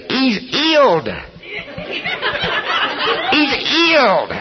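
high, slow imitation Welsh accent. Welsh healer answering the screaming doctor, in a put-on Welsh accent. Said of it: "Smith was Welsh, you know, and had that, that, uh, accent".

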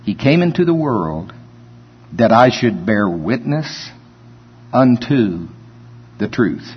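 each phrase weighed, pausing between; slow and deliberate. Shown as a demonstration. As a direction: lay the words down slowly for the congregation. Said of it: "pay particular attention to these next few words".

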